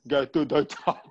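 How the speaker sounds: giggling through a mock Arnold catchphrase; half-laughed Schwarzenegger quote; cracking up mid-catchphrase; laughing Schwarzenegger line. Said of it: "I am Arnold Schwarzenegger".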